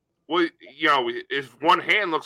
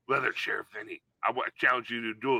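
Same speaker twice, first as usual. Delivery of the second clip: cowboy challenge; 9 semitones lower, 9 dB quieter, faster than usual. Acted. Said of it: "and you're like".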